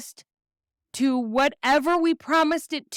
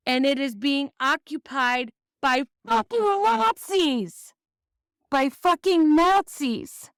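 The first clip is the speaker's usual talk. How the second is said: angry. Real, not acted. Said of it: "I'm angry all the time".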